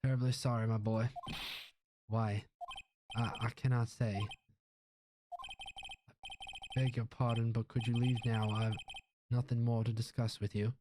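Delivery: lightly Southern pompous lawyer; put-on Southern gentleman refusing; dismissive lawyer. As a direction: brush off the young caller.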